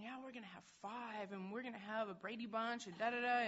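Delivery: put-on teasing her partner about having five kids; joking. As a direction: tease about a big family. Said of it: "I used to joke around".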